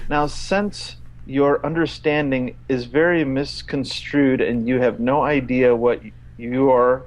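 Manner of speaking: one long run-on read that ignores every stop; read without punctuation. Shown as a demonstration. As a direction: plough through with no sentence breaks. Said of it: "I'm gonna read it without his punctuation".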